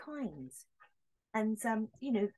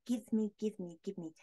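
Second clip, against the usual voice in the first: greedy mock whine. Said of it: "being greedy".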